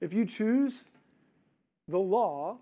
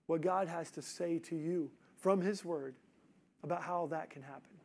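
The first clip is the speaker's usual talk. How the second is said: quiet, tender plea to the congregation; soft altar call; 2 semitones lower, 5 dB quieter than usual. Acted. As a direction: gently invite them to listen in. Soft invitation to listeners in bondage.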